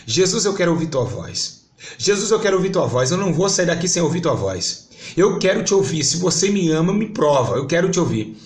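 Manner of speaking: retold desperate prayer, rising in pitch and volume; tearful pleading prayer. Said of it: "chorando em lágrimas".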